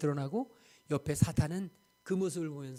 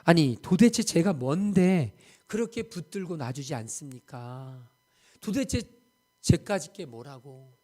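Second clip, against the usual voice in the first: angry retort; 2 semitones lower, 6 dB louder than usual. Retold or imitated. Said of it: "선교사님이 화가 나가지고".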